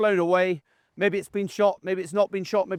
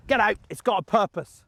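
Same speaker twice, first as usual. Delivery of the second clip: firm, punchy send-off; punchy command; 4 semitones higher than usual. Shown as a demonstration. Handler sending his dog for a retrieve, punchy. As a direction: snap it out with urgency. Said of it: "It's quite punchy".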